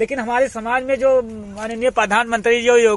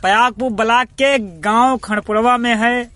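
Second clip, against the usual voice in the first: bright, louder presenter opening to listeners; radio announcer intro; 4 dB louder than usual. Acted. Reporter greeting his radio listeners, lively announcer voice. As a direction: announce the show like a community radio host.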